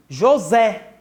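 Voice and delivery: "José" with the final syllable ZÉ punched; stress on ZÉ. Shown as a demonstration. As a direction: lean hard on the end of "José". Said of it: "Qual é a mais forte?". ("José" com força no "zé" final)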